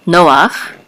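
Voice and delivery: Noach with stress on NO; first-syllable stress. Shown as a demonstration. Teacher showing where the accent falls, stressing Noach's first syllable. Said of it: "the accent is on the first syllable".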